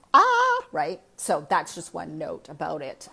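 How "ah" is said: high, loud exasperated "ah!"; frustrated cry. Retold or imitated. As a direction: let out a shrill cry of frustration. Exasperated at vegan bloating.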